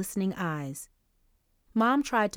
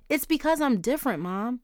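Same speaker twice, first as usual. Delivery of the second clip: blurting out; 6 semitones higher than usual. Acted. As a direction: let it burst out before you can stop. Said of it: "Angel blurted".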